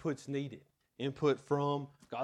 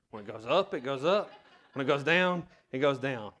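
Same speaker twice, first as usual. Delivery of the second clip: put-on laughing, louder child's insistence; retelling himself as a boy, louder and laughing; stubborn kid; 6 dB louder than usual. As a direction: insist like a know-it-all kid, half laughing. Kid self insisting to pilot.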